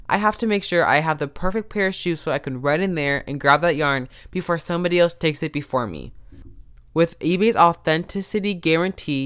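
upbeat sponsor read; a podcast host reading an ad. Acted. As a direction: sell it like a sponsor spot.

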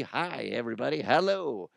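mock cheerful greeting; happy as can be. Host strolling down the street greeting everybody, acted happy. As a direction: play a happy, carefree hello. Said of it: "happy as can be".

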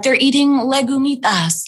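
mock Spanish. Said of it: "she's like, instead of saying beans".

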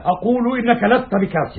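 high insistent repeat; rising pitch, mocking insistence; seething anger. Repeats denial with more force.

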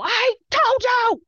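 high, loud, drawn-out crowing; re-enacted triumphant yell; retold gloating shout. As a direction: crow it at the doubters, slowly. Retold gloating at hostile crowd.

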